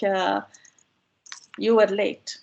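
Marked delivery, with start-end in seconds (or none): 1.6-2.4 matter-of-fact reproach on "You were late"; blaming demo. Shown as a demonstration. Aunt tells niece she made a mistake, mild blame. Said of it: "It means that you made a mistake".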